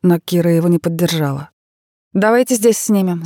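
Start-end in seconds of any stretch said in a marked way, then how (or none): 2.1-3.2 high, loud eager burst; excited. A narrator's reading. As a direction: lit up with an idea. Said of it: "загорелась она".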